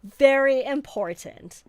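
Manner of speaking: put-on plucky British orphan accent; chirpy little British orphan voice. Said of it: "extra British orphan voice".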